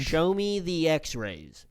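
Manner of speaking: slow stiff robot voice. Shown as a demonstration. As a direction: say it like a robot, slowly. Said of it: "No, I sound like a robot".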